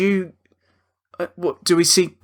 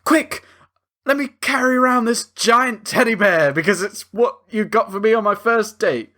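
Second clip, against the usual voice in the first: much higher, frantic mock voice; mock panic; 10 semitones higher than usual. Husband grabs the teddy during an attack, high and frantic. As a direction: squeal it high in a fake panic. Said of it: "and like".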